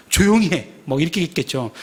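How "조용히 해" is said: mild mock rebuke, a bit raised; retold scolding. Crowd silencing the blind beggar, mock scolding. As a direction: imitate someone shushing a beggar. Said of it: "뭐라고 꾸짖었겠습니까?".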